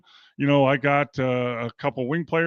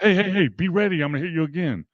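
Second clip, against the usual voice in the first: encouraging teammate; 4 semitones higher, faster than usual. Retold or imitated. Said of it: "It's two different things".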